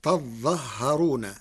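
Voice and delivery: تظهرون said slowly with open ta and ha and a doubled zha; تظهرون with fatha on ta and ha, no alif after zha; Warsh reading. Shown as a demonstration. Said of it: "فتصير".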